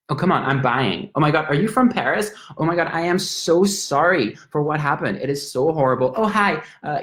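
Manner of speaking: a lightly voiced, chatty Irish woman, gushing. An Irish woman in a pub chatting up a Frenchman, lightly voiced and gushing. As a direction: gush over the cute Frenchman, all sympathy.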